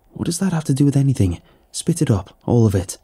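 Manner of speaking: angry interrogation. Acted. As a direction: press him hard for the whole story. Interrogating Pete, demanding the truth.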